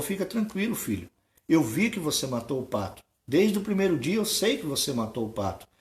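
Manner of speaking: leiser, tiefer, beruhigender Vater; sanft tröstend. Acted. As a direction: wie ein Vater, der sein Kind in den Arm nimmt. Father forgives son gently.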